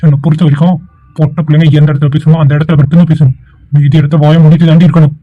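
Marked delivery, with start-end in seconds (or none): 1.2-5.1 stern scolding. Acted. Brother lecturing sister harshly.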